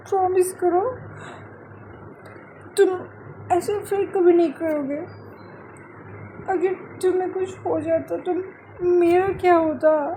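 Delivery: lightly voiced, upset young woman; pleading girlfriend. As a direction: beg him to promise, close to tears. Adaya begs him to promise.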